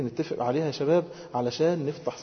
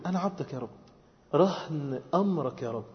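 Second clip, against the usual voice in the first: soft, unhurried plea; humble submission; 5 dB quieter than usual. Acted. Servant submitting to the Lord's command, softly and humbly. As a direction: hand yourself over gently.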